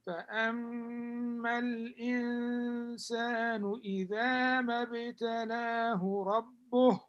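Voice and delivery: measured melodic Quranic reading; Quran recitation. Acted. Teacher recites Quran verse.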